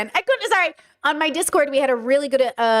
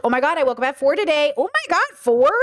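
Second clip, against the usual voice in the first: openly venting about waking at four, voice leaping up on four; sharing; 3 semitones higher than usual. Shown as a demonstration. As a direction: share it like a complaint you want sympathy for. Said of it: "Sharing versus bragging".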